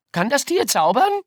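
put-on high, loud, eager child shout; excited call. A narrator's reading. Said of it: "rief Schoki".

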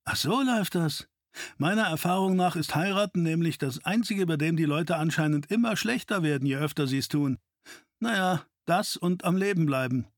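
a hint of a cocky wisecracker; teasing sidekick. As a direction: tease a partner with mock insight. Narrator voices Wayne.

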